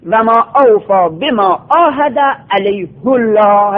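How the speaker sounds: عاهد علیه الله recited with the هُ of علیه rounded; Quranic recitation. Shown as a demonstration. Teacher reciting the verse to his students. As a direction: recite علیه as alayhu, with a damma. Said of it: "علیه، علیه، چرا اینجا این ها مضموم شده؟".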